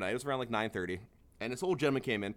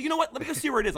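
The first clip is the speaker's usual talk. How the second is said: sarcastic politeness; 12 semitones higher, 3 dB louder than usual. Retold or imitated. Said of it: "I was like".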